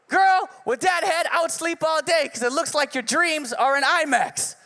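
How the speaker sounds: milk the punchline; sassy roast. Retold or imitated. Reading out last roast.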